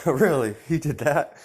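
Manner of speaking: high, loud, laughing disbelief; amused laughing. Acted. Aunt hearing what the boy did, laughing in disbelief. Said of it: "And she's laughing".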